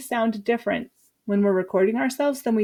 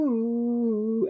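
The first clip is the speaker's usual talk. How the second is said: higher ooh exercise; 2 semitones higher than usual. Shown as a demonstration. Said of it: "then we go higher".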